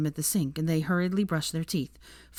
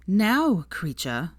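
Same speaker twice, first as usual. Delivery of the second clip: impatient; 2 semitones higher, much slower than usual. Acted. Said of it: "said Narcissa impatiently".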